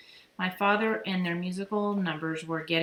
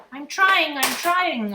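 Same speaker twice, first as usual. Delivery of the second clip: high, much louder bird echo; bird repeating; 9 semitones higher, 10 dB louder, much slower than usual. A narrator's reading. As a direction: squawk it back like a mynah. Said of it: "Uncle Feather repeated".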